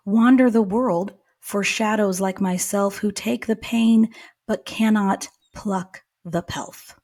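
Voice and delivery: poem reread with the corrected word; poem reading. Shown as a demonstration. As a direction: read the line slowly, as a poem. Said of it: "Is that supposed to be word or world?".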